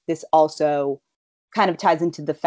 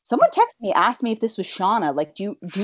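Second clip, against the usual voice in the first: higher-pitched imitation of a questioning mother; lightly voiced mother; 4 semitones higher than usual. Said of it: "She's like, um".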